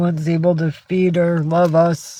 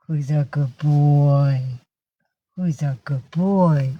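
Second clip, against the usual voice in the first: doting pet praise; slower than usual. Real, not acted. Owner praising her cat, doting. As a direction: coo it slowly, stretching the last word.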